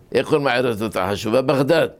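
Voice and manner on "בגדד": בגדד with a soft throaty gh, not a hard g; soft gimel. Shown as a demonstration. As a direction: say בגדד as baghdad with a breathed gh. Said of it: "גמרא כתוב בגימל".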